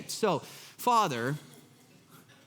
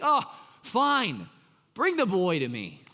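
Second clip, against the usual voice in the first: resigned sigh. Retold or imitated. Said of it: "he's just resigned".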